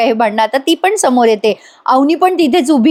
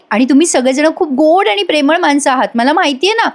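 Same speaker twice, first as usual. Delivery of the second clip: earnest, affectionate flow of praise; effusive, heartfelt; 4 semitones higher than usual. Retold or imitated. Avni tells the family they are loving, effusive. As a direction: pour out love for the household. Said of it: "Avni भरभरून बोलत असते".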